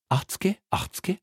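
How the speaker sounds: "Achtzge, achtzge" swooping up very high; haggling, rising. Acted. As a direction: sing "Achtzge, achtzge" upward like a haggler. Haggling over price.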